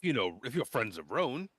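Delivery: put-on very high, horrified then cheery boy; eager boy welcoming friends; high gushing boy. GM plays Klistron again.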